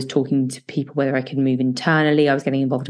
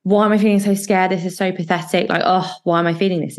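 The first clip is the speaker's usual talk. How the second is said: berating yourself over your own fear; self-critical; 3 semitones higher than usual. Shown as a demonstration. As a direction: scold yourself for being scared. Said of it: "This isn't being like".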